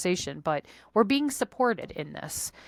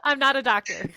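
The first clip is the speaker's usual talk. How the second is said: laughing; 6 semitones higher, 3 dB louder than usual. Real, not acted. Jokey disclaimer amid laughter.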